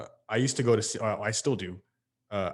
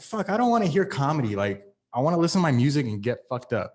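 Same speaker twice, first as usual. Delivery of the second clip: annoyed; 4 semitones higher, 4 dB louder than usual. Retold or imitated. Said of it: "like, I was pissed".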